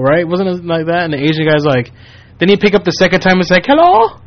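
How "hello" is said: very high falsetto hello; mock woman's voice. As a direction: fake a woman answering the phone. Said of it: "trying to act like a woman".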